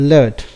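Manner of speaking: ലെഡ് with a short e, falling; ലെഡ് short vowel; short e in lead. Shown as a demonstration. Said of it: "അതുപോലെ തന്നെ".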